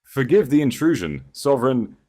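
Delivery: high, loud, breathless plea; scheming noblewoman bursting in, feigning panic, loud and high; gasping servant. A narrator's reading. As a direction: fake distress, rush it out. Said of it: "Isabella gasped".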